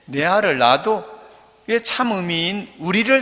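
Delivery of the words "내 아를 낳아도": lightly voiced Gyeongsang accent; Gyeongsang dialect. Shown as a demonstration. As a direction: quote it with a Gyeongsang lilt. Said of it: "경상도 사투리에". (경상도 사투리로)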